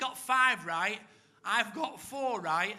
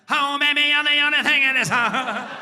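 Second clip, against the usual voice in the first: put-on gushing girlfriend; 4 semitones higher, 13 dB louder than usual.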